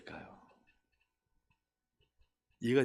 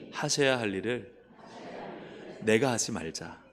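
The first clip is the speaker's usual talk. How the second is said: usual speaking voice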